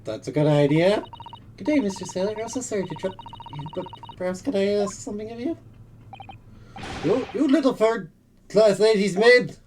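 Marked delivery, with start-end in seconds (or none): 1.5-5.5 polite. Acted. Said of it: "let me try instead". 7.0-9.5 slow loud angry yell; angry shout. Acted. Sailor yells at maid.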